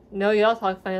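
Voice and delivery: put-on teasing retort with a southern accent. Southern cousins answering northern relatives, southern accent. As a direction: let a southern accent come out. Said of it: "our southern accents come out".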